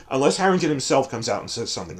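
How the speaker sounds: normal talking voice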